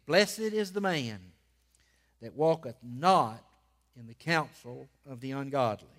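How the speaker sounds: measured reading with long pauses and punched key words; emphatic scripture reading. Real, not acted. Preacher reading the first Psalm to his church, emphatic proclamation. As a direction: proclaim the verses phrase by phrase.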